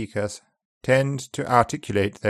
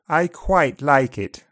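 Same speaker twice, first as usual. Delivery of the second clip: upper RP, front diphthong. Shown as a demonstration. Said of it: "Upper R P, front".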